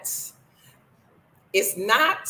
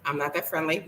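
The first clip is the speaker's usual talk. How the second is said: laughing; 3 dB quieter, faster than usual. Shown as a demonstration.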